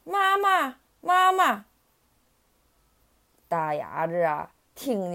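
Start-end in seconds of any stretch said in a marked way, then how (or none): 0.0-1.7 high tadpole voice crying for mama; calling along. A narrator's reading. Tadpoles copying the ducklings, high eager calling. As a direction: join in with high, drawn-out calls. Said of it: "也跟着一起喊".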